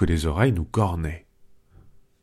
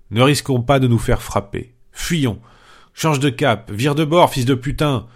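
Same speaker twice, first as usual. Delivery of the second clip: panicked outcry; 4 semitones higher than usual. Acted. Panurge to his companions hearing voices, panicking. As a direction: yelp it out like a man sure he's about to die. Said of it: "Panurge s'écria".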